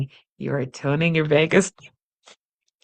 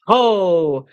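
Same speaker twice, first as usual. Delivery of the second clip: deep ho; 3 semitones higher, 4 dB louder than usual. Shown as a demonstration. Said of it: "Dig in deep".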